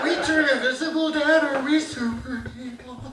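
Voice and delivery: small mock-timid reply; questioning kid. Son asks angry dad, small high voice.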